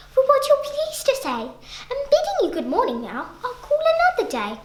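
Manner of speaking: little fly, laughing. Acted. Little fly laughingly bidding the spider good morning. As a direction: slip away cheerfully.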